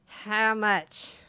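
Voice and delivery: put-on slurred drunk mumble. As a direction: slur it like a drunk. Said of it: "So I'm saying this in a drunk voice".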